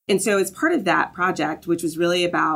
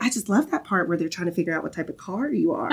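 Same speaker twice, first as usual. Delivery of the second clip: put-on thick Southern accent, laughing through it; mom's Southern accent with a giggle. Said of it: "my mom impersonation is, like, a very thick Southern accent".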